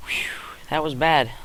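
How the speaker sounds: embarrassed whispered aside. Real, not acted. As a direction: breathe it out under your breath. Embarrassed aside after voice crack.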